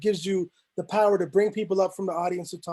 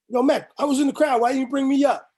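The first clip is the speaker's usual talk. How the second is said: higher-pitched imitation of an aggrieved complaint; mock complainer; 6 semitones higher, 4 dB louder than usual. Audience member blaming Mech for leaving them out, mock complaint. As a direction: lightly voice someone blaming the host. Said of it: "prevents people having to blame Mech".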